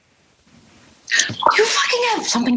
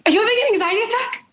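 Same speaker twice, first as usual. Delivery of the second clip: fast high alarmed question; 6 semitones higher, much faster than usual. Acted. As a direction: blurt it out alarmed. She asks alarmed.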